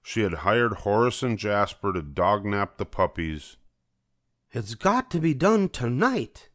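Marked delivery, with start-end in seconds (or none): 4.5-6.5 much higher bossy villainess voice, mild mock yell; high theatrical Cruella command. A narrator's reading. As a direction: bark orders at the crooks. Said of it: "Cruella yelled".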